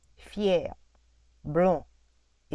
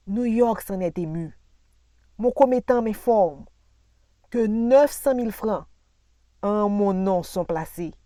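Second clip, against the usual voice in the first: loud, higher-pitched bragging; hammed-up wealthy man's boast; boastful planter; 4 semitones higher, 9 dB louder than usual. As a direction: crow over his fortune, bursting out on the first phrase. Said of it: "John reprit".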